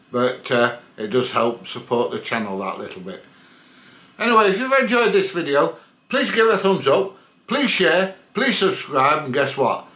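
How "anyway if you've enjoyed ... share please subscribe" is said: higher, brighter sign-off; upbeat outro. Real, not acted. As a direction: pitch the subscribe ask. Upbeat outro call to action.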